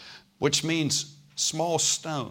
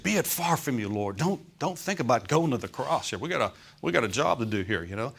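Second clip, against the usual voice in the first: a preacher's mock objection, voiced as the disciple; protesting Peter. Peter pulls Jesus aside to talk him out of the cross, lightly acted protest.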